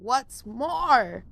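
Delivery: high, sharp creature snap; snapping Lorax. A narrator's reading. Lorax snapping at the Onceler in anger. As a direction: snap it out, dander up. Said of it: "snapped the Lorax".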